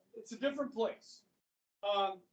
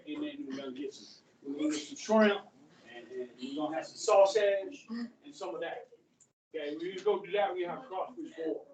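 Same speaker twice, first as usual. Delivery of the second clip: lightly done Cajun accent, lower and loose; 5 semitones lower than usual. Shown as a demonstration. Teacher imitating how bayou Cajuns talk, lightly hammed Cajun accent. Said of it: "I talk like that".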